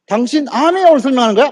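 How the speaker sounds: confrontational challenge. Retold or imitated. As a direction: challenge them like a hostile prospect. Man challenges the presenter.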